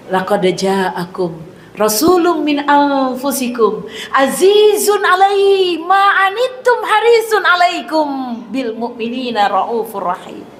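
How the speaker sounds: slow, chanted Quranic recitation. Acted. Preacher reciting the verse to the congregation, slow chant. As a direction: draw the verse out reverently.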